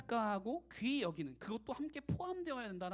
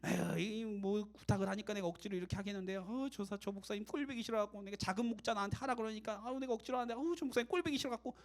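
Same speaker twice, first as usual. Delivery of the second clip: mock grudging complaint with sighs; acted, mildly put-upon griping; reluctant grumbling. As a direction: grumble like someone roped into a chore. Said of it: "억지로 그냥".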